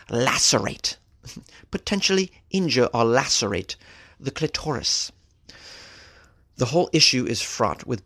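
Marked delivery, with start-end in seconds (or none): 0.1-1.0 English accent. Shown as a demonstration. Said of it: "when you say it with an English accent". 1.7-5.1 English accent. Shown as a demonstration. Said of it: "with an English accent".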